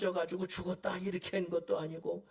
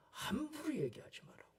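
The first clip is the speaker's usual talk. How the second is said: whispered warning; 7 semitones higher, 6 dB quieter than usual. Shown as a demonstration. Preacher hushes congregation about slander, whispering.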